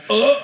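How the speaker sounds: hammed-up gasp at being stabbed; mock stabbed grunt. Host acting out Scorpion King stabbed, mock grunt.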